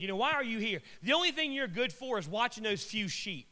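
acted-out belittling jeer; insulting. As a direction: needle him with mock questions. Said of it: "he starts insulting David".

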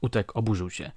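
ordinary delivery, nothing marked

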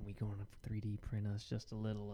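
low, soft dude voice, lightly done; a hint of a laid-back YouTube maker; YouTube guy impression. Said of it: "your other dude impression".

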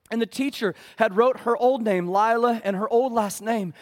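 high, loud preacher's cry; preaching at full force. Acted. Pastor building the adoption story, loud and high. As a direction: drive it home to the congregation.

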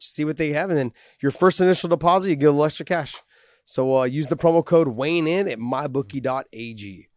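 energetic, casual host-read advert; sponsor ad read. Acted. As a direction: sell the betting site to listeners. Reads sponsor betting promo.

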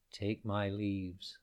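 put-on a slow, gentle old tree; old tree gives the bird his leaves, slowly sighing. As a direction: sigh it out slowly and kindly. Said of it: "the old tree sighed".

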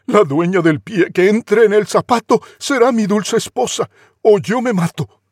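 hammed-up lovesick prince; prince proclaiming. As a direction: announce it to the whole court, melodramatic. Prince declares to court.

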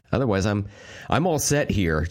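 worn-out, hoarse throat. Real, not acted. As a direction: talk through a spent, hoarse voice. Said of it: "You can tell by my hoarse voice".

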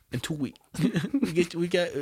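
imitated Vietnamese accent, broken by laughs; amused mock Vietnamese accent, stumbling over restarts. Instructor urging a customer to sign up now, imitated Vietnamese accent. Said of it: "They had that accent just like that?".

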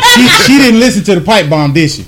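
words broken by laughter; laughing tease. Real, not acted. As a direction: tease her through a laugh. Laughing while teasing S2.

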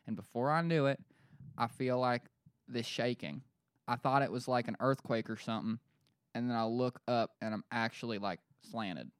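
lightly put-on Western PA witness; Western Pennsylvania accent. Witness recalling the shaking, Western Pennsylvania accent. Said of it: "doing that to just be Western P A".

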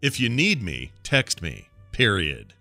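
deliberate dictation with separated phrases and falling endings; announcer-like dictation. Shown as a demonstration. Host dictating a text to Brian, announcer-like. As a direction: dictate like a stadium announcer, punctuation spoken. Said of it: "like you're announcing the, over the Baltimore Orioles game".

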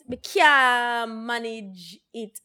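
very slow, stretching Me can't manage it; a slow, emphatic Me can't manage it; drawn-out repeat. Real, not acted. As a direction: drag each word of Me can't manage it out.

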